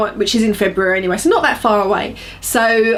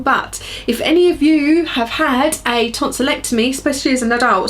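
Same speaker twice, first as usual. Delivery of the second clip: teary; 3 semitones higher than usual. Real, not acted. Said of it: "I was getting a bit teary there".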